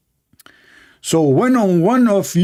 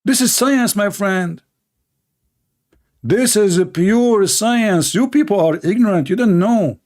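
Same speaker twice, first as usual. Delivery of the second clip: mock proclamation; 4 semitones higher than usual. Sarcastic mock of believers' claim.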